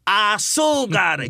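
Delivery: long drawn-out joyful shout; shouted cry. Acted. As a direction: belt it out high and slow. Poem quotes a singer's famous cry.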